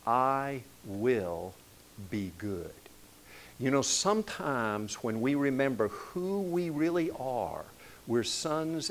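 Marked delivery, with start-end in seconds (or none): 0.1-2.7 put-on little girl's vow. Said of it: "she said".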